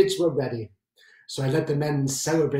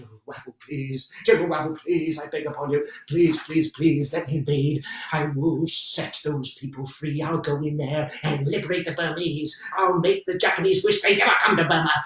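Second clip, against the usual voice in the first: begging plea. Retold or imitated. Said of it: "And I said".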